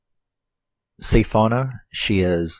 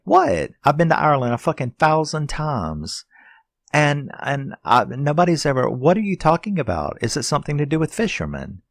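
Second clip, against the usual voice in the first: high-pitched incredulous protest; freaked out; 7 semitones higher than usual. Retold or imitated. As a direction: retell your outburst, pitched way up. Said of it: "freaked out".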